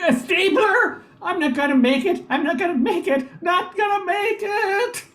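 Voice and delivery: panicky despair. Acted. New hire panicking over his stapler, pitch climbing.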